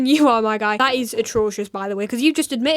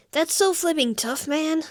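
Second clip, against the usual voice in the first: mock awe; 4 semitones higher, 4 dB quieter, slower than usual. Sarcastic mock praise, repeated.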